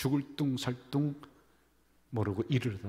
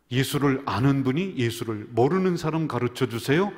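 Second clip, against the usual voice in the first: louder, stress on 모르는, rising at the end; emphatic preaching; 6 dB louder than usual. Real, not acted. Preacher urging the church to teach others, loud and emphatic. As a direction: drive the slogan home to the congregation. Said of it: "명설교이다".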